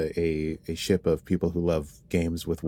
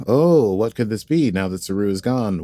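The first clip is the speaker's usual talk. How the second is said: louder, swooping mock suspense; mock wondering; 2 semitones higher, 5 dB louder than usual. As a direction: ham up the big question. Mock wondering in episode recap.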